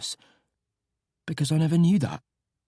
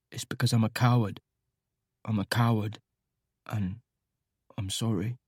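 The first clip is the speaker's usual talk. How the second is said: soft, hushed, halting confession; quiet ashamed whisper in the dark; 6 semitones lower, 5 dB quieter than usual. A narrator's reading. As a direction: whisper it as if he might not be heard. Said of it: "Nate whispers".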